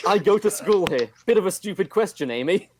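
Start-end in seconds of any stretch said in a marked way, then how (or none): 0.1-1.1 matter-of-fact quote. Retold or imitated. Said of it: "That is literally what Jenny says".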